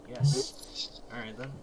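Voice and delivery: hoarse whispered yes. Acted. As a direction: breathe it out hoarsely. Wall whispers.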